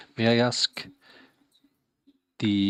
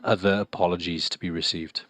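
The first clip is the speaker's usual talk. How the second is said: flat translator device voice. Real, not acted. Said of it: "you will be hearing the translator's voice".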